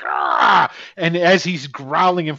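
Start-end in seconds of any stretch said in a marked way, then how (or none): 0.0-0.7 a low frustrated growl-shout from the orc; angry orc roar. Acted. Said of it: "he's like pissed".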